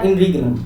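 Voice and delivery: "in regnum" in two parts, the middle "te" left silent; silent letters. Shown as a demonstration. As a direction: model "in regnum" without sounding the "te". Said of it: "इसका pronunciation नहीं करना है". ("in regnum", बीच का टीई silent)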